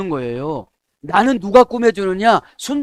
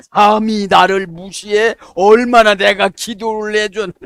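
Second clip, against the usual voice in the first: slow, louder, offended huff; indignant mock outrage; 3 semitones higher, 6 dB louder, slower than usual. Pastor mimicking an offended minister, slow indignant huff. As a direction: play the wounded ego who feels slighted.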